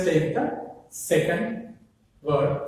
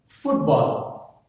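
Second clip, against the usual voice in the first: "Football" stressed on FOOT; first-word stress; 2 semitones lower than usual. Shown as a demonstration. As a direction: hit "foot", let "ball" fall away. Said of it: "the stress falls on the first".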